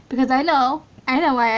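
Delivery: luid en gretig; excited. Real, not acted. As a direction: roep het triomfantelijk. Excited knowing build.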